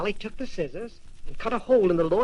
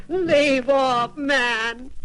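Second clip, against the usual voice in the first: high, louder panicked cry; wife crying out; 5 semitones higher, 4 dB louder, much slower than usual. A narrator's reading. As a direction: beg him to stop, frantic from inside the bag. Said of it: "the giant's wife cried".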